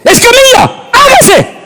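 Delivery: high playful command to a person; mock divine command. Preacher jokingly commanding a congregant as God. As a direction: call out a member like God.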